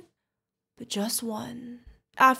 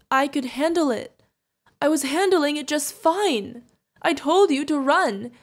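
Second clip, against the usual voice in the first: raised, agitated protest; upset scolding; 4 semitones higher, 5 dB louder than usual. Acted. Guardian scolds the wounded kid, upset protest. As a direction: scold loudly, higher with distress.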